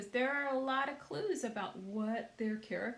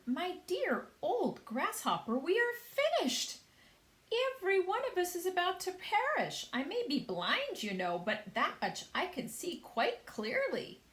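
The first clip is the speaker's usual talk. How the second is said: high, loud despairing worm; gloomy earthworm; 10 semitones higher, 4 dB louder than usual. A narrator's reading. Earthworm telling the grasshopper they are doomed. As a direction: moan that all is lost.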